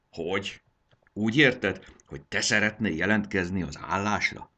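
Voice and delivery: can't believe what you hear; surprised disbelief. Acted. Conductor surprised the dragon girl wants the job, astonished. Jakab surprised by her offer.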